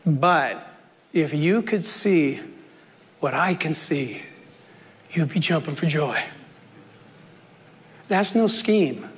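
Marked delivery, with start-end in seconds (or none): 0.1-6.2 gentle, lowered reassurance; Jesus. Acted. Jesus consoling his boys after their troubles, gently reassuring. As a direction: drop softer and confide the promise. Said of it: "What he's saying to his boys here is".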